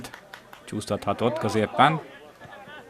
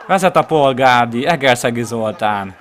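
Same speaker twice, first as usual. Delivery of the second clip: loud goal call; 2 semitones higher, 6 dB louder than usual. Real, not acted. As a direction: keep the goal roar going. After the goal, still shouting. (hangos gólbemondás)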